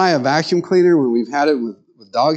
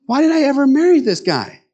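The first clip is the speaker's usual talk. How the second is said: acted exasperation; 13 semitones higher than usual. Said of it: "other days you look at them and go".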